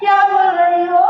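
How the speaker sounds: loud, high-pitched indignation; shocked outrage. Acted. Wife reacting to didi's claim on her husband, outraged. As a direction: fire back, appalled.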